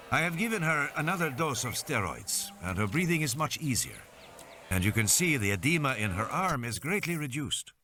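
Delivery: a hint of a composed doctor character; lightly voiced doctor. Doctor reassuring parents about breathing, lightly voiced doctor.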